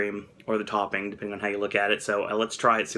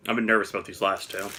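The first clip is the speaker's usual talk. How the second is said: whispering; 5 semitones lower, 4 dB quieter, faster than usual. Real, not acted. Confiding nervousness about last flavors.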